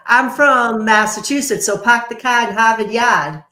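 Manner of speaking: bad Boston accent; New England accent. Shown as a demonstration. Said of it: "my bad New England accent".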